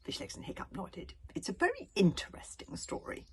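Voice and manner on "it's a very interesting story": spat. Acted. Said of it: "spat Alvin".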